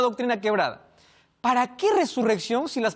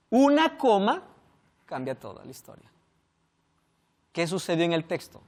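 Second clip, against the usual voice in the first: normal talking voice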